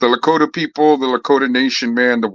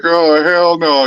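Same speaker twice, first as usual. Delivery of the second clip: disgusted; 5 semitones higher, 5 dB louder, much slower than usual. Retold or imitated. Retold disgusted reaction.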